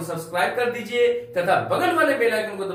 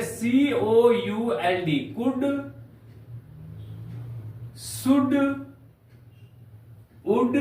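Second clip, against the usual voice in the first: slow spelling out; 4 semitones higher, much slower than usual. Shown as a demonstration. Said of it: "डी के पहले एल आए तो एल का उच्चारण नहीं करेंगे".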